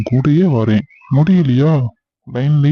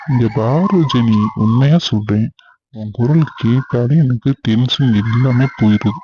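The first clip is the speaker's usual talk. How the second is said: slow, low and gentle; husband calms his wife Jeni, slow and tender; tender reassurance; 4 semitones lower than usual. Acted.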